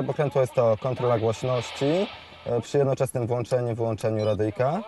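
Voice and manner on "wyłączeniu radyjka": ordinary talk, nothing marked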